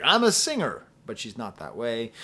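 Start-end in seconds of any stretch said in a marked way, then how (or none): 0.0-0.8 high, loud, self-important singer voice; hammed-up diva; mock diva singer. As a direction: puff up like a pop diva. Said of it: "is like".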